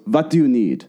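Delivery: mock Russian-accented question; imitated Russian accent. Host imitating the star questioning refugees, mock Russian accent. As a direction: put on a light Russian accent. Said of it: "that's like a Russian accent".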